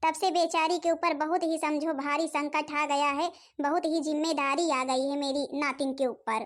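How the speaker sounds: a weary grandmother sighing over her lot; old grandmother. Acted. Grandmother figure talks to neighbour.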